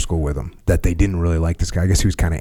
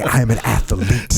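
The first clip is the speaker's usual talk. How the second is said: proud athlete voice. Retold or imitated. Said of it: "He would say".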